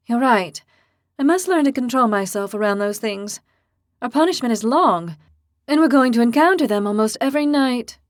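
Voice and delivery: put-on high, loud, boastful girl; fierce young heroine. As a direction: declare it like a hotheaded girl. Lily calmer but voiced.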